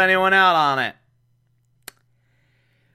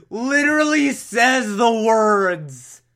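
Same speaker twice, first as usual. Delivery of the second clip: incredulous outburst; 8 semitones higher, 4 dB louder, slower than usual. Real, not acted. Outraged at the racist line.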